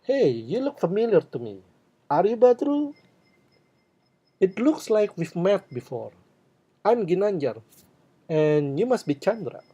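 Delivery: high, eager recognising voice; bright "Are you Badru?" said as a friendly guess; friendly recognition. Shown as a demonstration. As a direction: sound delighted to recognise them. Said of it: "these are the expressions you can use".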